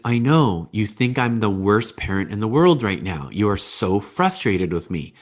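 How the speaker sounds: understated, validating acknowledgement; name a child's frustration back, evenly; mirroring parent. Acted. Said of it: "mirroring sometimes is".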